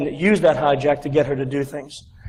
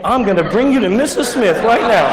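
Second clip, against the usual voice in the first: imitating a determined helper, louder and higher; hammed-up insistence; 4 semitones higher, 5 dB louder than usual. Receptionist dragging a jobseeker to his interview, mock insistent. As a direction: take charge in a raised, lively voice.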